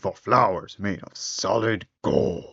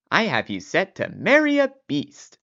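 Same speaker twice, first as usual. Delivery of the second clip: put-on old man voice; 9 semitones higher than usual. Old man breaks news.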